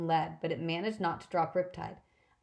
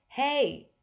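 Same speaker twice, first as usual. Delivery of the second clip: sudden loud high call; shouted hey; 8 semitones higher, 5 dB louder than usual. Acted. Percy shouts to turn the Furies, loud and high. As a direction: shout to grab the Furies' attention.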